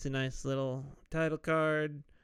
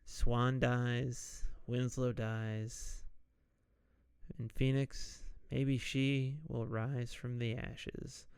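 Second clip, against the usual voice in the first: slower, careful delivery; slower than usual. Shown as a demonstration. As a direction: take it slow and get it right. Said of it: "I did it on the first try".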